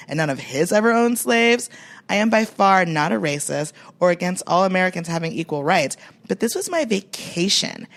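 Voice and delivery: loud, indignant entitled tourist reading her own complaint; whiny Karen delivering a grievance; white girl inflection. Acted. Reading the viral plantation review aloud, in an entitled white girl voice. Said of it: "White girl inflection by me".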